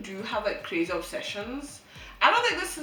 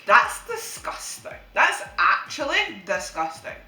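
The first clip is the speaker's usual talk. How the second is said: disgusted; 4 dB louder, slower than usual. Retold or imitated. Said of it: "I'm just like".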